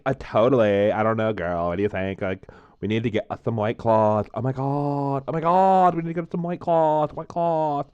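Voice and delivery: a hint of a bubbly Valley girl gushing. Joking he'll become a Valley girl, lightly mock girly. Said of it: "start talking like a Valley girl".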